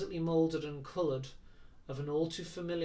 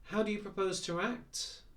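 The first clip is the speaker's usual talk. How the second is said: bantering; 6 semitones higher than usual. Acted. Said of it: "on a bantering note".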